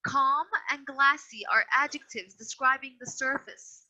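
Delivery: "Calm and glassy" said slowly and deliberately; slow emphasis. Shown as a demonstration. Patient teacher slowly repeating "Calm and glassy" to a student.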